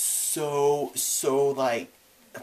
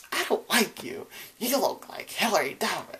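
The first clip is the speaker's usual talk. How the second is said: mock childish taunt; 7 semitones higher than usual. Retold insult to Julie.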